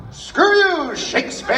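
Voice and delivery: high, loud outburst; shouting. Retold or imitated. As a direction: yell it at Shakespeare. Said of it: "and I say".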